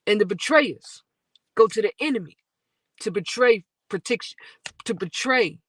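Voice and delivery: rhythmic, quick spoken-word delivery; spoken-word poem. Acted. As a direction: drive the rhymes forward like a performance poet. Recites spoken-word verse.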